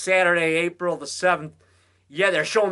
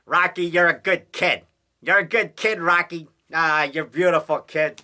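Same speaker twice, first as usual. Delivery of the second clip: imitating Conrad; 4 dB louder than usual. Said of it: "Conrad used to say".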